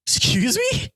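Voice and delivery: very high mock Cockney; Cockney accent. Shown as a demonstration. Showing co-host what Cockney is like, mock Cockney accent. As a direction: squeal it in a put-on Cockney accent. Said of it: "I know there's Cockney, which is like".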